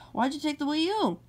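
high, sighing whine; sigh, then whine the accusation; whiny complaint. Acted. Mario confronts Red Yoshi over the taken Wii U, whining.

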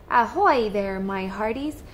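lightly voiced hearty pirate; pirate captain. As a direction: call out like a sea captain. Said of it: "called Captain Scratchbeard".

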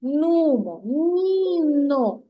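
put-on slow, measured rhyme for a child; slow nursery poem read to a child; reciting a poem. Shown as a demonstration. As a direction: read the little verse slowly and clearly. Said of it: "Послухай тепер віршик".

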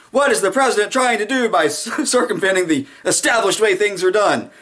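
hammed-up indignant host; mock outraged interviewer. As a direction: press harder with every phrase. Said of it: "the narrative turns to".

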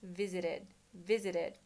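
"Visited" repeated with the final d dropped, vizired; model pronunciation. Shown as a demonstration. Teacher showing the final sound is lost. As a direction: repeat "visited" letting the last sound fall away. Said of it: "ida ikus ne lost".

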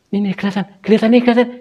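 real, high-pitched alarm at a sighting; alarmed excitement. Real, not acted. Apparition becomes visible.

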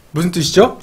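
ordinary talk

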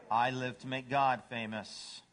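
lightly voiced, understated devotion; humble dog. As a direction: answer evenly, without any show. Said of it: "What's a dog say?".

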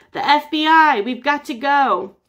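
high, loud alarm; a burst of frightened urgency. Acted. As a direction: panic at the sight. FBI sleds arrive.

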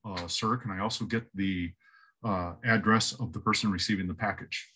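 quiet, low, expressionless clerk; lightly voiced deadpan counter clerk. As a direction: read it completely straight, no reaction. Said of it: "he's super deadpan".

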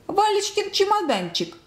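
high-pitched amazement, speeding up; astonished gasping. A narrator's reading. Old woman recognising her grandson's suitcase, high astonishment. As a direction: exclaim high, then rush the question. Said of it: "ахнула Анна Петровна".

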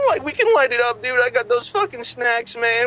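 laid-back Scooby-Doo stoner; Shaggy voice. Acted. New caller passed the phone, as Shaggy.

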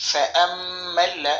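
slow, drawn-out chanted recitation; slow Quranic chant. Acted. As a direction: recite it slowly with melodic tajweed. Recites verse fragment.

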